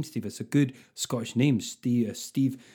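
put-on lightly done Scottish accent, building to a rally cry; Nicola Sturgeon. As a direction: send up a Scottish nationalist leader, rising in fervour. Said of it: "if Nicola Sturgeon was talking about your name".

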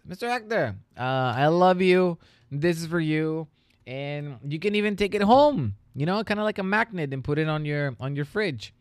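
a hint of an eager kid giving a gift; young student. Teacher imitating his student handing him a magnet, lightly childlike.

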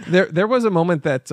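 laughs through the restart; stammering between giggles; laughing. Real, not acted.

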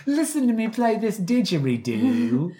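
high, silly mock-Australian voice; hammed-up Australian impression; fake Australian accent. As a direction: push a bad Aussie accent up high. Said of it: "faked her Australian accent".

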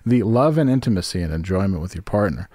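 upbeat commercial read. Acted. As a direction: read it like a sponsor spot. Reads sponsor ad copy.

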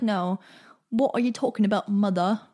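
mock British accent, lightly put on; hint of hammed-up British; terrible British accent. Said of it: "That was my terrible British accent".

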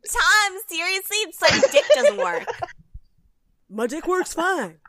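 mock reality-star outburst. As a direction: shriek it like a furious cast member. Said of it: "impressions are on point".

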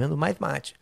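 fast, lightly lisped vendor voice; a hint of a laid-back mate seller; Quinho's intonation. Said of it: "essa entonaçãozinha". (entonação leve de vendedor de mate)

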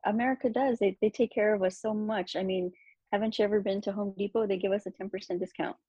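mock praise, laughing through it; over-the-top fake gratitude; sarcastic. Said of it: "And this is sarcasm".

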